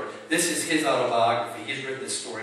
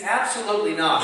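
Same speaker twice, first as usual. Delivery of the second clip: raised, firm rejection, short of a scream; emphatic denial; 5 semitones higher, 5 dB louder than usual. Retold or imitated. Preacher explaining Paul's Greek answer, mildly emphatic. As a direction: press it home with higher pitch. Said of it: "It's almost, he's screaming it".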